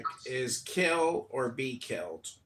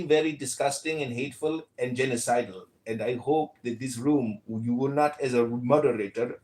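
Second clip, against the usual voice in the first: put-on light Indian accent, rather anglicized. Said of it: "Wait till you hear his Indian accent".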